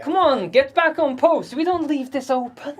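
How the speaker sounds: high, insistent telling-off; exasperated order. Acted. Guard orders Matea back on post, exasperated.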